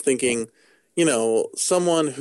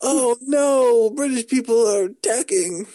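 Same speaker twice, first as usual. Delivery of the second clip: high-pitched mock Cockney cry of alarm; 11 semitones higher, slower than usual. Joking with co-host about British orcs attacking, mock Cockney alarm. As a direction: play up a Cockney panic, pitched way up. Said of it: "British kinda Cockney accent".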